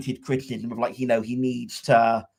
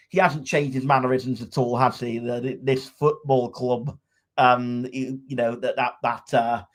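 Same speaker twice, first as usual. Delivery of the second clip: put-on terrible Scottish accent. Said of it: "that was a terrible Scottish accent".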